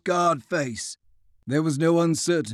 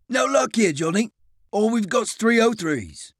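higher, cocky northern English voice; cheery Lancashire quartermaster; 6 semitones higher than usual. A narrator's reading. Quartermaster refuses Francois, cheery Lancashire voice. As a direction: brush him off breezily.

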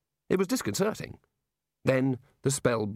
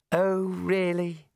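very slow, raised, drawn-out dismay; weary disbelief; 6 semitones higher, much slower than usual. A narrator's reading. Young wizard despairing at his colleagues, weary disbelief. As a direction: draw it out in tired exasperation. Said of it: "he said wearily".

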